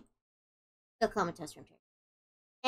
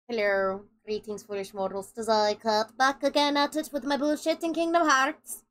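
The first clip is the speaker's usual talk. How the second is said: put-on Irish accent; 4 semitones lower than usual. Streamer greeting her viewers in a mock Irish accent. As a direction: greet the foolish mortals in a lightly done Irish accent. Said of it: "Why am I suddenly Irish?".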